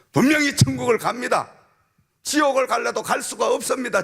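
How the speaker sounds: shouted high preaching climax; fiery preaching. Acted. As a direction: revival preacher at full cry. Preaching at full force.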